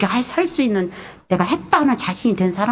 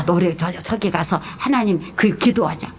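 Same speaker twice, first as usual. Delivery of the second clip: ordinary talk, nothing marked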